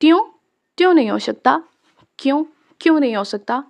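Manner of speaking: put-on childlike voice, squinting demand; suspicious child. A narrator's reading. Little boy questioning his uncle suspiciously. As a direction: ask it like a wary little boy. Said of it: "आंखें छोटी किए पूछा".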